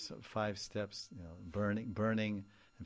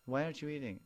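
concerned parent; 7 semitones higher, 8 dB louder, faster than usual. Retold or imitated. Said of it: "you're at the dinner table".

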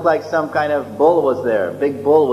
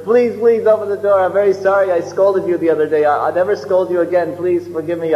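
begging to be let out; 4 semitones higher than usual. Retold or imitated. Trapped teacher begs forgiveness.

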